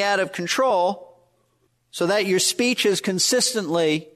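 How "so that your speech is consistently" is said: consistently given light deliberate weight; emphasis on consistently. Real, not acted. Preacher stressing a key word to the congregation, mild emphasis on consistently. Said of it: "and I emphasize the word consistently".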